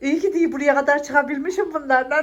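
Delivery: laughing. Real, not acted. Relieved after exhausting climb.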